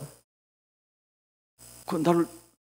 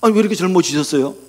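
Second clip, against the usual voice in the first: surprised greeting; 2 semitones higher, 7 dB louder than usual. Retold or imitated. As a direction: act amazed at how young the pastor looks. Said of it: "인구를 만나는데 인구가".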